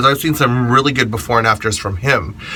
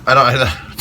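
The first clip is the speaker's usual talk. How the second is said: British accent. Real, not acted. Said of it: "suddenly I became British".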